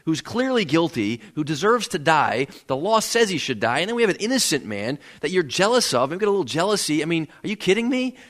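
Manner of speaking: imitating Pilate pleading, rising in pitch; a hint of Pilate begging the crowd, mounting. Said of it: "Pilate is kind of pleading with them".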